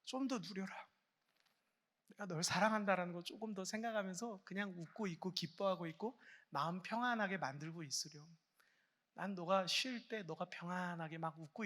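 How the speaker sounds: gentle God's voice. Retold or imitated. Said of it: "하나님은".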